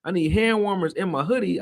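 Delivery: loud, high, whiny cry about the freezing cold; mock cold complaint. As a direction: overplay how cold it was, stretched out. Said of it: "but it was like".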